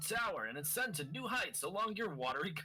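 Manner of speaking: trailer announcer read. Acted. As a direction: sell the game like a trailer voiceover. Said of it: "I'll do the announcer voice for the next game".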